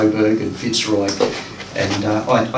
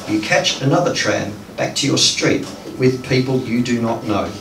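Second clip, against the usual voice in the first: even, measured lines with a pause after each; unhurried, understated poetry recital; poem reading. Acted. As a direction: recite a repetitive poem calmly and deliberately. Reads poem aloud.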